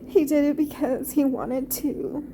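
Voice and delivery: pushing words out through emotion; choked up. Real, not acted. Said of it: "I'm getting choked up".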